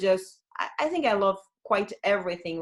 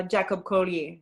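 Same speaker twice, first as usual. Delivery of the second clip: French accent. Real, not acted. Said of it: "I said that with my French accent".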